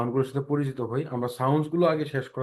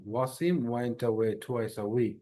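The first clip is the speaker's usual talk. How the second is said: said slowly, careful w's; slow tongue twister; much slower than usual. Shown as a demonstration. Teacher introducing a W tongue twister. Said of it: "tongue টুইস্টটা".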